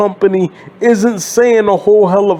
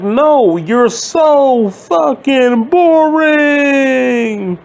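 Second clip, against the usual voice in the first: dismissive retort; 5 semitones higher, much slower than usual. Retold or imitated. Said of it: "And I'm like".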